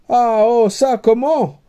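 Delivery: high, startled sputter; flustered surprise. A narrator's reading. Suitor to the princess, startled and sputtering. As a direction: caught completely off guard.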